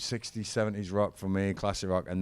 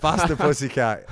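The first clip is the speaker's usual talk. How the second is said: a band name drawled high and loud in a mock Southern accent; hammed-up Southern accent; 7 semitones higher, 6 dB louder than usual. Shown as a demonstration. Teaching the host the band name, hammed-up Southern accent. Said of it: "in a really nice Southern accent".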